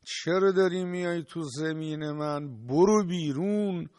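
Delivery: mock yelling at an intruder, rising to the end; retold angry shout. Hostile farmer yelling at the Imam on his land, mock shout. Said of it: "داد کشید، فریاد زد".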